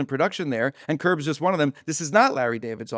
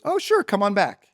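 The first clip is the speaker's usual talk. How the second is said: higher, breezy welcome; easy invitation; 6 semitones higher than usual. Retold or imitated. Director agrees to bring the comedian back, breezily. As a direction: wave him through with an easy yes.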